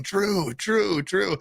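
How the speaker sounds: mock fan call; calling out a name. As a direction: call the name out to get attention. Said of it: "I thought he was going".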